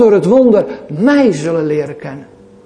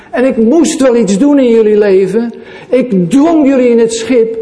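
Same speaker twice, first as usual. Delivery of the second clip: higher, louder, proclaiming; Jesus to his disciples, raised and commanding; 4 semitones higher, 4 dB louder than usual. Acted. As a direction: speak as the risen Lord calling his disciples. Preacher voices Jesus speaking.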